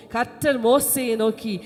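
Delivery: slow, emphatic reading of God's words; solemn Bible reading to a congregation; scripture reading. Acted. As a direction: declaim the verse deliberately.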